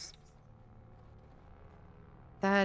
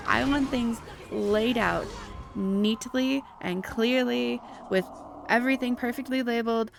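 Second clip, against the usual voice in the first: heated rant; 3 semitones higher than usual. Real, not acted. Ranting about wanting clear numbers.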